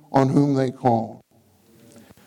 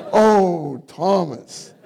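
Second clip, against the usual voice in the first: longing call; 2 semitones higher, much slower than usual. Shown as a demonstration. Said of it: "I really need".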